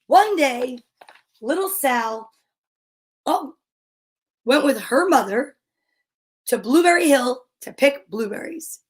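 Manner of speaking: measured picture-book narration with pauses; reading to children. A narrator's reading. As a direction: read it aloud to little kids, phrase by phrase.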